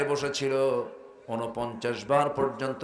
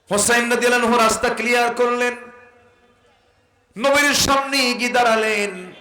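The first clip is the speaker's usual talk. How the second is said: full force preaching; 10 semitones higher, 9 dB louder than usual. Real, not acted. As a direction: sing it out to the congregation. (উচ্চস্বরে ওয়াজের সুর)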